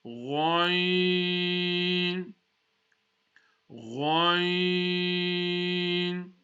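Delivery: long Ghain with a full, round mouth and a throaty gh; slow Arabic Ghain drill. Shown as a demonstration. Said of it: "Full mouth".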